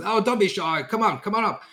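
jolly barman waving shy guests up to the bar; cheery barkeep. Acted. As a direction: barkeep calling guests over, high and hearty.

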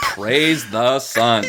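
slow words through laughter; cracking up mid-line; laughing. Real, not acted. Bursting out at the shirt.

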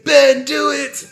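loud, high, drawn-out yell; mock action-hero yell; hammed-up urgent command. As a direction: shout the order, stretching the words. Acts Joe ordering Ben.

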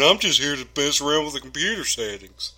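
Randolph. Retold or imitated. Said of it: "Is that your Randolph impression?".

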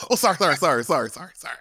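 rapid repeated apology sinking into a whisper; mock apologetic whisper. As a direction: imitate an intruder backing out with hushed sorries. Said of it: "Like the whisper helps".

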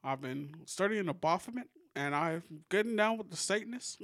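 light presidential impression, pitched questioningly upward; Barack Obama. President confiding in Dennis about studying Baphomet, lightly voiced impression. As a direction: lightly imitate a president making a casual confession. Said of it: "That was a pretty good Obama impression".

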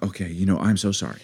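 low, soft apology; good neighbour mode. Retold or imitated. Wife placates shrieking neighbour, meek good-neighbour mode. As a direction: back down meekly and quietly. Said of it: "good neighbor mode".

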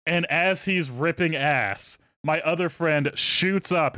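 usual speaking voice

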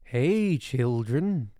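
calling out. Acted. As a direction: call out to the children. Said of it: "cried the witch".

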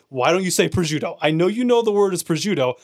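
retold annoyed protest; retold exasperation. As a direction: complain with growing exasperation, pitch climbing. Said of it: "I would get so mad at my mom".

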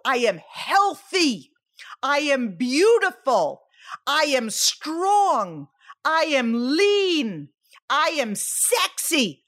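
slow, drawn-out self-affirmation; spoken affirmations. Shown as a demonstration. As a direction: savour each affirmation, stretching the key word. Demonstrates positive affirmations to self.

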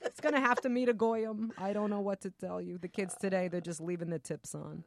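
lightly voiced kvetching bubbe; Jewish grandmother. Grandmother fretting over uncircumcised grandson, mild comic kvetching. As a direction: complain like a put-upon grandma. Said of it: "your Jewish grandmother".

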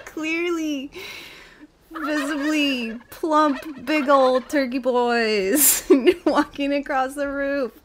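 real laughter through the words, slow and high; delighted laughing description. Real, not acted. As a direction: giggle out the punchline. Laughing at the turkey video.

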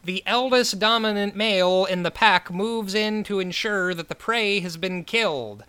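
a hint of a strange nature-film voice-over; David Lynch. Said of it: "sounds basically like David Lynch going".

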